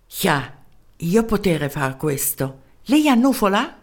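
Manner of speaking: a tiny German professor in broken Italian; small German-accented voice. Acted. Professor answering the mayor's call, small German-accented voice. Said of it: "Una vocina dal tipico accento tedesco".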